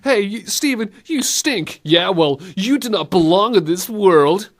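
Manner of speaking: high playground bickering; arguing kiddies. Pretend. Kids arguing on the playground, high mock-bratty taunts. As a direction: squabble like little kids, loud and high. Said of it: "couple of kiddies arguing on the playground".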